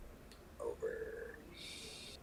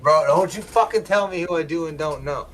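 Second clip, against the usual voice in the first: higher-pitched indignant outburst; heated, high-pitched telling-off; a little upset; 9 semitones higher than usual. Real, not acted. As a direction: snap back, offended, voice pitched up. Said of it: "I got a little upset".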